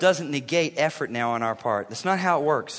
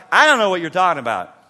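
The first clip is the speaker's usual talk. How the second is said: fast, baffled brush-off; louder, dismissive I-don't-get-it; exasperated retort; 2 semitones lower, 4 dB louder, faster than usual. Retold or imitated. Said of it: "I'm like".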